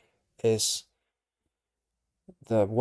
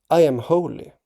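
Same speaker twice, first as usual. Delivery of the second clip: higher and louder, a lofty pronouncement; grand declaration; 4 semitones higher, 5 dB louder than usual. Shown as a demonstration. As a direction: declare it like a prophet. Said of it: "I don't know if I should talk like that".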